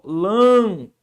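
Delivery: "Lâmpada" drawn out slowly in syllables, LÂM held; syllable separation. Shown as a demonstration. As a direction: hold the first syllable of "Lâmpada", then place pa and da apart. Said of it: "vamos fazer a separação dessa palavra". ("Lâmpada" separando as sílabas, com LÂM alongado)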